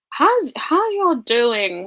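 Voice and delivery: cheery stretched greeting. Real, not acted. Greeting chat while searching.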